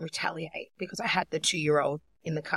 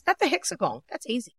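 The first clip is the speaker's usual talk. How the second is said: put-on higher-pitched breezy little-kid answer; imitated confident child; 6 semitones higher than usual. Daughter answers the principal's hard question, lightly imitated confident child. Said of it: "She goes".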